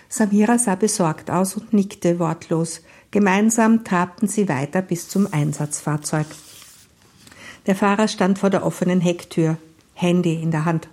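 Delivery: measured read-aloud narration; even storytelling voice; story narration. A narrator's reading.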